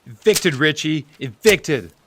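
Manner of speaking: loud, hammering the word home; angry insistence. Acted. Bill holding up the papers to Richie, loud and insistent. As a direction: push the word at him.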